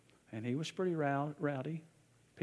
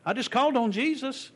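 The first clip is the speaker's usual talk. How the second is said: earnest; 10 semitones higher, 6 dB louder than usual. Retold or imitated. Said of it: "He said".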